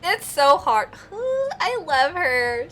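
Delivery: tearful. Real, not acted. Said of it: "I'm sorry I got so emotional".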